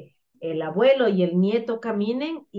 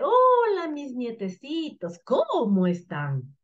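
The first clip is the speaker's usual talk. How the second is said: grandfather; 3 semitones higher, slower than usual. Acted. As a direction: slowly greet the grandchildren as grandpa. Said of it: "pero la voz gruesa". (saludo de abuelo, lento y alargado)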